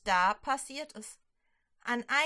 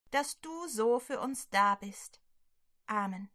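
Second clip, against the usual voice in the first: spoken prayer. Acted. Leading children in prayer, gentle prayer voice.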